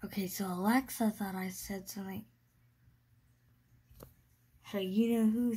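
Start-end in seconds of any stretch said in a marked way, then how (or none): 0.0-2.2 nervous night vlog whisper. Real, not acted. Whispering aside at 3 AM.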